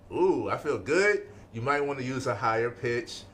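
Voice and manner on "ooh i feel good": excited. Shown as a demonstration. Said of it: "You want them to be excited".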